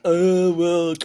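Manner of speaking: groaning British zombie moan; a put-on British zombie voice, drawn out. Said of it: "my impression of a British zombie".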